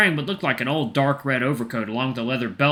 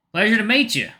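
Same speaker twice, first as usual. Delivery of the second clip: high, lightly southern greeting; southern accent; 10 semitones higher, 4 dB louder than usual. Shown as a demonstration. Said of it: "I'm just gonna make him southern".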